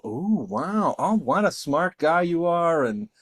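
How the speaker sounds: mock-admiring partygoer, lightly voiced; hint of an awed guest; impressed stranger. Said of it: "everybody would go".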